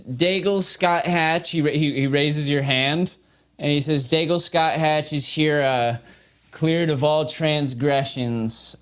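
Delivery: a lightly voiced herald; formal proclamation. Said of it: "Huntoon says".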